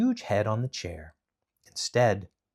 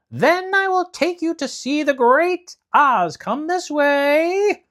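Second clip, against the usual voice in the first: Guardian of the Gates; 8 dB louder, slower than usual. Acted. Guardian leads them to Oz.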